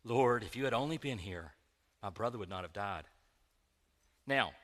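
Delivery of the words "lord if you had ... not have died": soft, low, pious Bible reading; hushed and reverent; reverent halo reading. Shown as a demonstration. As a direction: say it meekly, like a saint. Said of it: "let's put our halo on".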